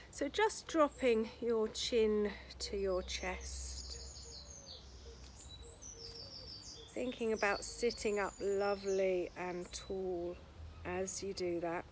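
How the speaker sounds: slow, spacious instructor's voice; guided relaxation. Acted. Yoga teacher easing students into shoulder release, gently guided relaxation. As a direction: guide them through each stretch unhurriedly, leaving long pauses.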